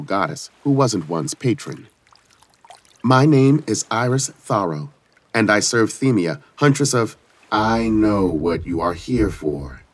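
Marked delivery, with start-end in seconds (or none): 3.0-7.2 formal, raised introduction; commanding warrior goddess. Acted. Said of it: "bowed respectfully". 7.5-9.8 brisk goddess. Acted. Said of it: "The goddess's tone was brisk, but not unkind".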